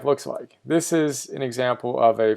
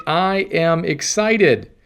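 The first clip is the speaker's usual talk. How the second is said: excited; 2 semitones higher, much slower than usual. Shown as a demonstration. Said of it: "teach them to say".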